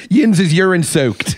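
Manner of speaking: slow Pittsburgh yins; lazy Pittsburgh phrasing; a hint of Pittsburgh accent. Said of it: "it's a Pittsburgh thing".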